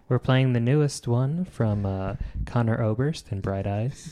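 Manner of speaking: understated radio host parody; NPR host voice. Pretend. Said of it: "you got a pretty good N P R voice".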